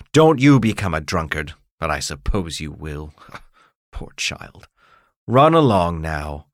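a hint of a self-righteous official; lecturing mayor. Mayor moralizing to the boy about his mother, mildly stern.

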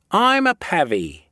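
"pavvy" stressed on its first syllable. A narrator's reading. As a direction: hit the start of "pavvy", then let it drop. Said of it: "The accent was on the first syllable".

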